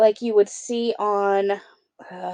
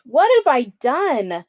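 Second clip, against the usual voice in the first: gasping dismay; 4 semitones higher, 4 dB louder than usual. Acted. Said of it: "then gasped".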